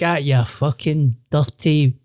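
slow mock uncle rant ending in a cheery offer; lightly voiced Rangers uncle, slow; uncle, slow and drawn out. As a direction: drag out the insult, then perk up for the pie. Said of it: "he was like".

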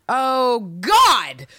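loud, high oh God; exasperated outburst. Real, not acted. Host reacting to a reckless letter with a loud oh God. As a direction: blurt it out in disbelief.

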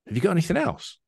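high, different landlord voice. Acted.

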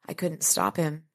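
soft, hollow and numb. Acted. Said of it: "she said in a numb voice".

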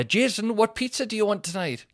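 high, loud household call; imitated calling out. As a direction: holler a question to someone in another room. Aunt calling out to uncle.

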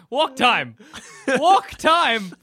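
an overjoyed dog shouting; excited dog. Pretend.

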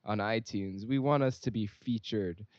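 put-on light Singlish accent, upbeat plug. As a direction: Singaporean English lilt, lightly done. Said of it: "if you guys want me to do my Singlish accent again".

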